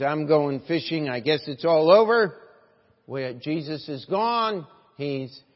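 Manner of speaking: loud, rising declaration as Peter; preacher acting out Peter, projected hard; acted giving up. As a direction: announce loudly that you are done.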